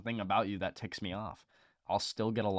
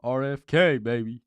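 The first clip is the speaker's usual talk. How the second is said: higher, much louder, a rally cry; bigger hype shout; 6 semitones higher, 12 dB louder than usual. Real, not acted. Podcaster hyping RFK to his co-host, shouting. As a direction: yell it like a crowd chant. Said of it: "louder repeat of cheer".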